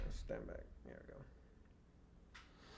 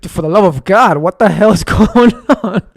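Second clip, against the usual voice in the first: louder exclamation breaking into laughter; can't hold a straight face, laugh through the words; 2 semitones higher, 5 dB louder than usual. Real, not acted. Ranting to viewers about the chaos, cracking up. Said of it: "I can't keep a straight face".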